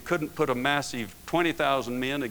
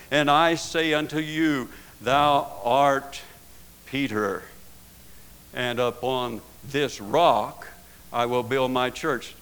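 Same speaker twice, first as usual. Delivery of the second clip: voicing Jesus; 3 semitones higher, 6 dB louder than usual. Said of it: "And Jesus says".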